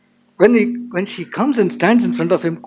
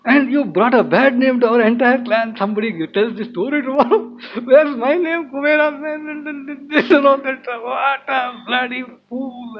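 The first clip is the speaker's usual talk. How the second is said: mock scolding, building higher and drawn out; retold shouting; 5 semitones higher than usual. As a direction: imitate an angry telling-off, stretching the insults. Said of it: "And all he shouts at him".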